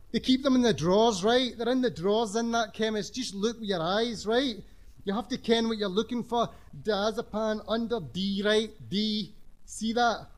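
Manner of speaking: high, loud, bossy schoolboy voice; lightly voiced swaggering teenager; cocky teenage know-all. Mark lectures the others.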